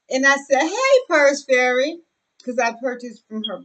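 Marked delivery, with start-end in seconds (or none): 0.6-2.0 calling out. Retold or imitated. Calling out to her friend.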